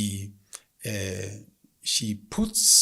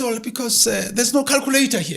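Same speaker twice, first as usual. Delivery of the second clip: helpless woman; 11 semitones higher, 6 dB louder than usual. Acted. Woman excuses herself.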